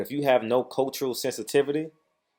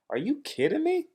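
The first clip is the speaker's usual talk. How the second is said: high-pitched disbelief; shocked outburst at Eddie Hearn; incredulous. Real, not acted. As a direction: pitch it way up in outrage. Outraged rant at Eddie Hearn.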